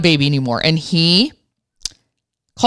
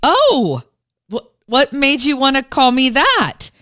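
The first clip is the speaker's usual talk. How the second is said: higher, carefully calm "what made you wanna call me that"; calm, gentle question; 6 semitones higher than usual. Retold or imitated. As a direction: keep it light so he doesn't feel judged. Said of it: "And I very calmly said".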